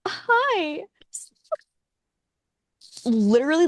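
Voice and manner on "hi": a squeaky high hi, imitating the boss; mock bright hello, pitched way up; high chirpy hi. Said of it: "he's like".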